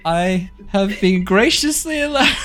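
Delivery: mock hostage statement. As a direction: parody a hostage reading a script. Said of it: "Blink twice and you're being held".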